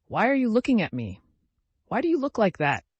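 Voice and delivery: high, loud, challenging questions; drunkenly quarrelsome. A narrator's reading. Drunken old man challenges his son over his looks, quarrelsome. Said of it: "tries to pick a quarrel".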